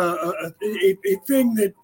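choking on water mid-sentence; choking on a drink. Real, not acted. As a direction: sputter through a swallow gone wrong. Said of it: "pardon me, as I'm choking on the water".

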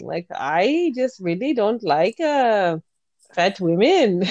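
slow, lightly bouncy Scandinavian lilt; bouncy Scandinavian accent. Shown as a demonstration. Co-host showing the sister a bouncy Scandinavian accent. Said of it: "I always do a bouncy thing".

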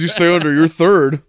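lightly voiced pompous anchorman; mild Ted impression. Podcaster quoting Ted, a bit condescending. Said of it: "that's how you gotta impersonate his voice".

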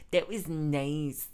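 drawn-out sincere that was nice; lingering sincere afterthought; slow sincere repeat. Shown as a demonstration. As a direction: stretch it out slowly and mean it. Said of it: "repeats it more slowly".

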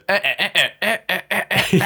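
high cackling witch noises; Gruntilda cackle. Retold or imitated. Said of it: "Gruntilda just goes".

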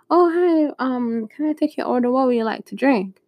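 a hint of polite server patter; server greeting. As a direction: take an order in a slightly put-on high voice. Voicing the restaurant server.

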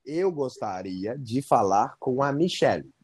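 pedido lento, palavra por palavra; jeito travado de falar. Retold or imitated. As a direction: imitar quem pede com cuidado numa língua estrangeira. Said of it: "olha o jeito que eu falei". (pedido ensaiado, bem devagar)

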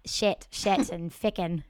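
lightly put-on Scottish swearing; slow down for mock Scottish swear words; Scottish accent. Shown as a demonstration. Host showing how Scottish swearing sounds, mock Scottish accent. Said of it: "in a Scottish accent".

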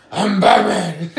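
slow, sighing husky Batman line; sigh, then land the line slowly; low Batman voice. Retold or imitated. Friend retelling the parody, the final Batman take. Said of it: "he's lost his voice".

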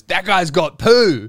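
sneering stranger in the waiting room; mocking onlooker. Waiting room stranger sneers at sweaty guy, mock gossip. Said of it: "everyone looks at you and goes".

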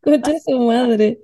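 laughing disbelief. Real, not acted. Amazed reaction, laughing.

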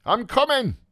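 calling back. Acted. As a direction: shout an answer from below.

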